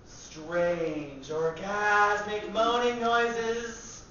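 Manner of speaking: drawn-out, swelling mock-orgasmic delivery. Performer mimicking movie love scenes for an audience, mock orgasmic. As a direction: stretch the words out like moans. Acting out movie moaning sounds.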